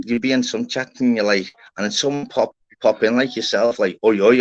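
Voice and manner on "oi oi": loud mock call of greeting. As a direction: shout a cheeky hello into the chat. Calling out a chat greeting.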